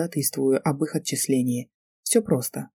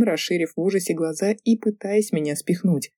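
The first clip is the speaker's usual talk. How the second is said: ordinary delivery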